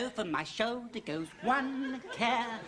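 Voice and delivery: Impression of a singer-actress. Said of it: "I'm doing my singer impression".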